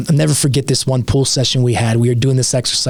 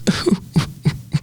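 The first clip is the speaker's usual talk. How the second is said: brief voiceless mock sob; Sam Turner sob; 5 dB quieter than usual. Telling the host how a teammate broke down, soft imitated sob. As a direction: imitate a tough guy breaking into a quick sob. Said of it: "Sam starts sobbing".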